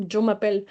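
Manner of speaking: «je m'appelle» with je said like jo; student mispronunciation. Shown as a demonstration. Teacher imitating a student's error, je said as jo. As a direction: mimic a learner saying «je» as jo.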